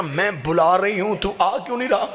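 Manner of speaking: put-on mournful question to the boy, held back; tearful plea. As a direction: plead through tears, still restrained. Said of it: "बीबी ने रो के कहा".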